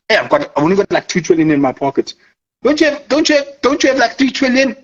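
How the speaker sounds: playful hustler haggling over trillions; slangy big-money trader. Retold or imitated. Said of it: "I think they talk like that".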